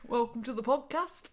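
mock Australian accent. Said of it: "A bit Australian".

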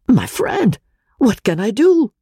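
high, pleading appeal; piteous cry. A narrator's reading. The professor pleads piteously with his friend. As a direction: plead helplessly, hands out. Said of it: "cried the professor, piteously appealing".

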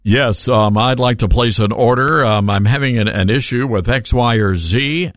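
lightly voiced deep-voiced caller; a hint of the man's low voice. Host playing the caller to customer service, lightly put-on caller voice. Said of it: "and, and I'm calling in".

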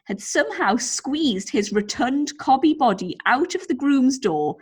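lively, measured story narration; story read-aloud. A narrator's reading. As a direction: read the anecdote out to entertain. Reads out a listener's story.

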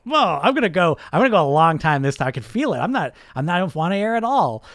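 loud, fast, brash self-confidence; cocky. Retold or imitated. Quoting his own cocky brain while holding his breath, loud and brash. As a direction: boast like you'll never need air. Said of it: "I am so cocky".

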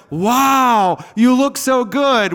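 mock-sweet "you look so good"; passive-aggressive compliment. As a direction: gush it while hiding envy. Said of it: "which is passive-aggressive for".

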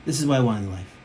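low, measured declaration; deeply sincere. Acted. Someone declaring what they want in life, deeply sincere. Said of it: "really clearly, deeply saying".

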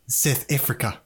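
South African accent. Shown as a demonstration. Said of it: "I always get into my South African accent by saying".

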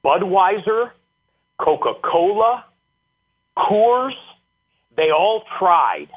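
slow, drawn-out pronouncement with rising brand names; a hint of a booming football coach preaching to his team. Head coach holding up ice water to his players, lightly booming. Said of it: "he said it in his booming voice".

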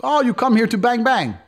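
put-on high, taunting foreign accent; mocking local man. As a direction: sneer it like a drunk local thug. Moldovan man taunting in broken English.

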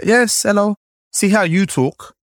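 put-on high, slow taunting kid voice; mock-patient child lecturing a newcomer; mocking schoolkid. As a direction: sneer it like a playground bully. Bullies mock his accent.

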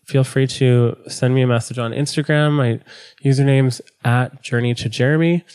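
stuffy nasal voice from a cold. Real, not acted. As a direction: speak through a blocked nose. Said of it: "forgive me for my cold and my nasally voice".

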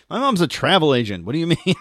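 mock snooty rich kid; a hint of a spoiled rich kid. Mocking a rich kid's reply.

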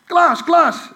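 high, loud frantic calls of his name; wife shouting her collapsed husband's name; panicked calling. Retold or imitated. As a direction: call him like a frightened wife.

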